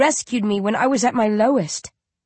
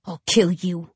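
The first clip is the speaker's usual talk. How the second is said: growling. A narrator's reading. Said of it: "I growl".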